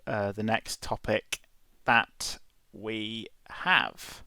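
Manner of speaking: smooth radio host delivery; slow announcer voice for the intro. Shown as a demonstration. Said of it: "I'm gonna take my radio voice".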